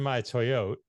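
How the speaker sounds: "Toyota" as two syllables, toy-OAT; "Toyota" ending on the t, like "toy-oat"; clipped Toyota. Acted. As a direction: drop the final "a" of "Toyota". Joke drops Toyota's final vowel.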